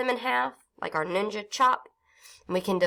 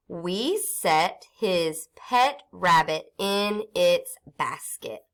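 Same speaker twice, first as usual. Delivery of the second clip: 1 slow read-aloud; much slower than usual. Shown as a demonstration. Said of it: "teacher reads sentence slowly aloud".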